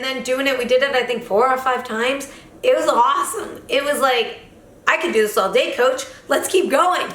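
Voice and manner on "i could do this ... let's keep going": rising higher, laughing into it; eager. Retold or imitated. Telling the coach mid-training, eager and laughing. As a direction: egg the coach on.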